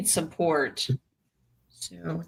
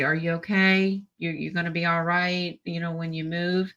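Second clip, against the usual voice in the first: gentle concern. Shown as a demonstration. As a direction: model a kind check-in. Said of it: "Do it that way".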